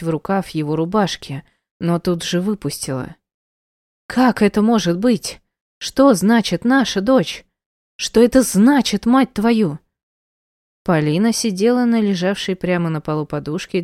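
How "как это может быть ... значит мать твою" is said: raised, higher, choking with rage; higher and louder, demanding answers; furious outburst. Acted. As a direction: confront him, barely able to breathe for fury. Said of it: "едва не захлебнулась яростью".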